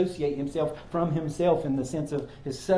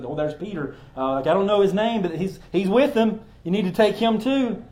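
higher and louder, pointing him out eagerly; accusing servant girl; 4 semitones higher, 4 dB louder than usual. Retold or imitated. Servant girl urging guards to take Peter, accusing. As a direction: blurt it out like tattling on him. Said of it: "is like".

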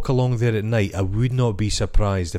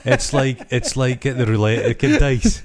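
amused, higher-pitched through laughter; laughing; 3 semitones higher than usual. Real, not acted. Comparing a wee shake to dice, laughing. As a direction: talk through a real laugh. Laughing while describing shaking the handful.

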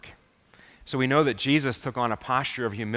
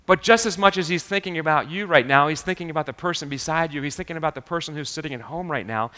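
quick unbroken run of phrases, barely pausing; rapid-fire listing; 2 semitones higher than usual. Real, not acted. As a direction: rattle off the list, one after another. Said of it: "Am I speaking too fast?".

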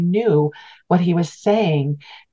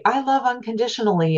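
mock declaration; 6 semitones higher, faster than usual. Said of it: "we say".

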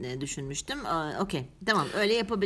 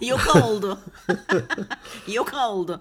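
laughing; 6 dB louder than usual. Real, not acted. Wordplay joke, laughing.

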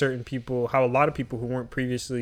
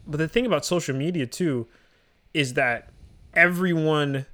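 loud breathing through the mic; heavy nose breathing; slower than usual. Real, not acted. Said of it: "bro, you're breathing so loud".

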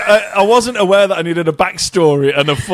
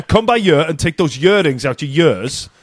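the phrase in a native Welsh accent. Shown as a demonstration. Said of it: "and that sentence, Dana".

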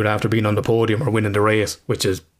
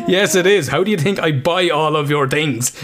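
answering through real laughter; laughing; 7 semitones higher than usual. Real, not acted. Retelling his reply to his son while laughing. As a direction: let the laugh break into the words.

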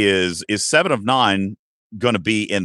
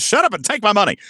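high, excited read-out of a comment; eager quote; 11 semitones higher, faster than usual. Retold or imitated. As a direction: read it as an eager buyer, pitched up. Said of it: "Look, Griffin says".

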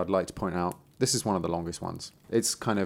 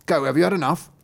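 raised, louder questioning; questioning tailor; 6 semitones higher, 5 dB louder, faster than usual. Acted. Tailor goes down to ask the goat, raised questioning voice. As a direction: ask the goat pointedly, pitched up.

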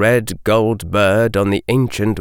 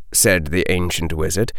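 plain reading voice

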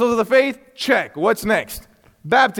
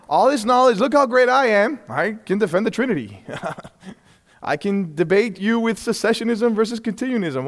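mock prideful boast. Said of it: "that's what you become".

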